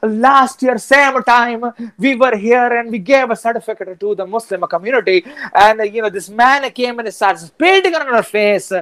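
put-on high, heavily accented South Asian storyteller. Recounting a certificate giveaway gone wrong, South Asian accent. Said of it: "talking in your regular accent".

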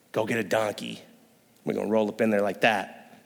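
low, soft, unbothered Jesus; low easy Jesus sending for a donkey; casual laid-back Jesus. Retold or imitated. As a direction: shrug it off like it's nothing. Jesus voiced casually ordering donkey.

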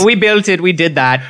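a weak put-on Dutch accent; hammy fake Dutch accent; bad Dutch accent. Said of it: "This is the worst Dutch accent".

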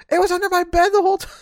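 high and fast, breaking into a laugh; grandma laughing off her own mistake. Retold or imitated. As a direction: giggle it out in grandma's voice.

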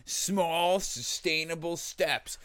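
slow, drawn-out sales pitch; infomercial. Retold or imitated. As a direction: sell it like a video ad. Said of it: "one of those videos".

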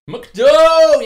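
high, loud exclamation; shouted nickname. Pretend. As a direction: yell it out.

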